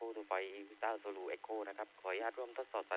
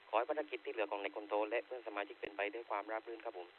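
handheld radio transmission; like talking through a handheld radio; over walkie talkie. Real, not acted. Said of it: "ออกอากาศด้วยเครื่อง Handy".

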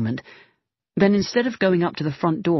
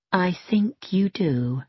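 whisper; 4 semitones higher, slower than usual. Acted. Megan's menacing reply.

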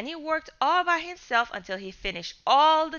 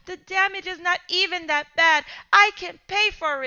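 higher, urgent repeated pleas; desperate pleading; 6 semitones higher than usual. Acted. Scared boy pleading not to call police, desperate. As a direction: plead frantically.

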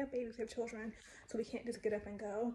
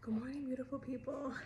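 whisper; 3 semitones higher than usual. Real, not acted.

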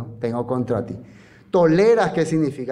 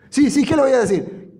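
high, eager, submissive yes-man; obey her quickly and nervously; meek Acab; 8 semitones higher than usual. Acted. Acab voiced obeying Jezabel. (Acab sumiso ante Jezabel, voz aguda)

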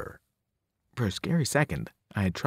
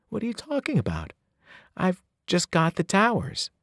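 annoyed; 6 semitones higher than usual. Acted.

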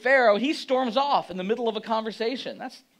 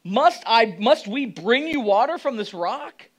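loud, raised angry voice; angry shout; 3 semitones higher, 6 dB louder, slower than usual. Retold or imitated. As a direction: shout it at the crowd. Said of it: "he shouted at them".

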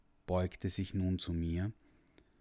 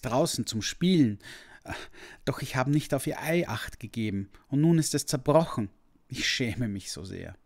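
put-on higher, louder, tearful pleading boy; sobbing confession; 4 semitones higher, 5 dB louder than usual. Ashamed boy confesses the broken egg to the dragon, tearful and pleading. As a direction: beg forgiveness through tears, voice pitched up. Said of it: "schluchzte ich".

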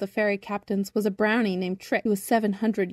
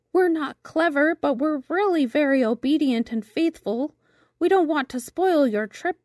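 lightly higher, pleading little shrimp voice; eager shrimps; 5 semitones higher than usual. Acted. Shrimps begging Birdling to take them as crew, lightly higher voice. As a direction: beg earnestly to join the crew.

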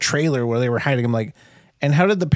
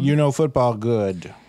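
slow mock pidgin; slower than usual. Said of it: "she was getting at".

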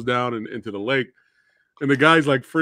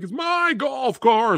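higher, slow mock shout; shouted golfer line; 11 semitones higher, slower than usual. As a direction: bark it like an entitled golfer.

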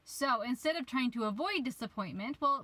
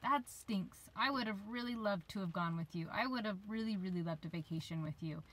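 peaceful acceptance; 4 dB quieter than usual. Pretend. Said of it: "at that peaceful spot and say".

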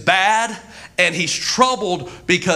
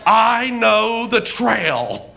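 slow declaration; 3 semitones higher, much slower than usual. Retold or imitated. Retold mock-emphatic declaration.

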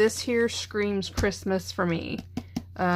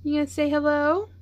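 pet talk; 6 semitones higher than usual. Real, not acted. Coaxing the cat to greet.

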